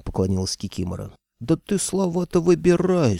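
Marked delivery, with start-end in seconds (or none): 1.4-3.2 yelled. Acted. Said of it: "снова заорала главбух".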